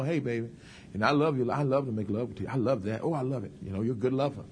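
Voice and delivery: low, soft, gentle coaxing; butter up a husband gently; tactful sweet talk. Acted. Wife talking to her husband, low and tactful. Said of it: "You gotta be very tactful".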